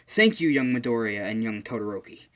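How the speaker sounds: mock-heroic call of gratitude; acted hero's thanks. Hero's acted line after breaking free.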